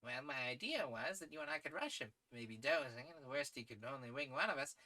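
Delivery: lightly voiced gentleman adventurer; sporting English adventurer. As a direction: pitch a rash plan with breezy confidence. Voices sportsman proposing a plan.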